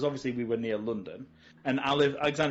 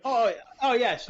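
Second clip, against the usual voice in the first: higher, slowed yes through a laugh; giggling, stretched yes; 9 semitones higher, 5 dB louder, slower than usual. Real, not acted. Laughing agreement after joke.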